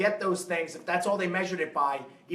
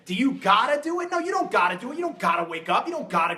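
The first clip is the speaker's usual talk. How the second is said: emphatic rhetorical question; 4 semitones higher, 3 dB louder than usual. Real, not acted.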